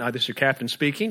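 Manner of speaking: a hint of a calm pilot on the intercom; lightly voiced captain making an announcement; airline captain voice. Pilot telling the passengers he is speaking, lightly voiced captain. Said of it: "the pilot comes from the front".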